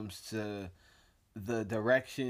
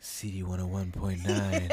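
lower, smooth late-night DJ; radio DJ voice; 4 semitones lower than usual. Pretend. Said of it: "I've got my radio voice on now".

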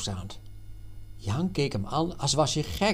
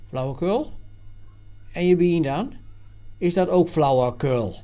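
sharp, louder retort; fierce; 4 semitones higher, 5 dB louder than usual. Acted. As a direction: snap back at him fiercely. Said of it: "zei Jan fel".

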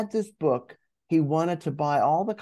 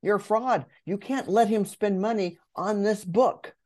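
a lightly voiced nagging inner critic, higher; half-play the doubting inner voice, raised in pitch; a hint of a scolding imposter, pitched up; 6 semitones higher than usual. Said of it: "my imposter voice came up and said".

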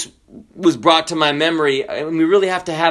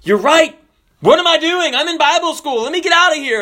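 high, urgent self-talk; sudden realization, acted; 13 semitones higher, 4 dB louder than usual. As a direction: play coming to your senses, pitched up. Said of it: "And I'm thinking".

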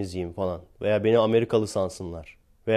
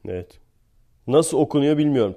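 normal talking voice

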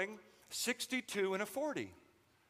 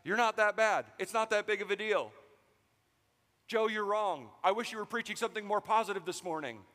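inner defense attorney; 3 semitones higher than usual. Acted. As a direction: protest your innocence to the preacher. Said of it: "that little voice telling us".

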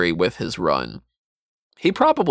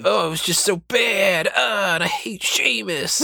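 high-pitched mock wrestler promo, drawn-out phrase endings; hammed-up impression, stretch every last syllable; Jeff Hardy; 9 semitones higher than usual. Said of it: "puts emphasis on the last syllable of every sentence".

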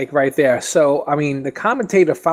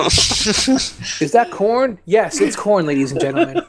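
announcer voice; 3 semitones higher, slower than usual. Pretend. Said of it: "what the commentator would say".

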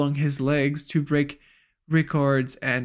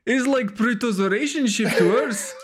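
laughing joke; 8 semitones higher than usual. Real, not acted.

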